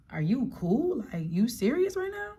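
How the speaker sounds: high, disbelieving question; incredulous. Retold or imitated. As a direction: ask it in pure disbelief. Incredulous look at yelling date.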